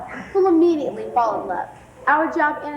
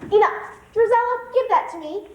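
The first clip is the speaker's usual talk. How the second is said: commanding shout; 7 semitones higher than usual. Acted. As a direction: cut the squabble dead. Stepmother stops the quarrel.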